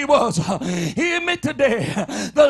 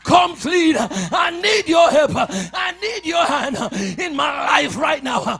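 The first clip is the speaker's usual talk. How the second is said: shouted prayer. Acted. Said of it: "Tell God".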